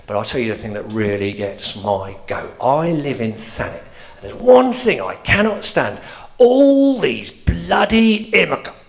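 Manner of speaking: put-on old man from Thanet griping about kids and TV.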